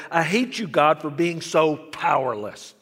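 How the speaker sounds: boy shouting his hatred at a powerless God, retold loudly. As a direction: hurl the words up at God, hammed-up fury. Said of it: "I shouted".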